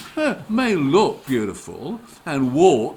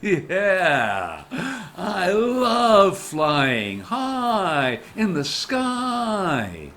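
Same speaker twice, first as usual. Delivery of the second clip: slow, dreamy and proud; dreamy pride; 2 semitones higher, much slower than usual. Acted. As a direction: savour every word of flying. Crow proud of flying.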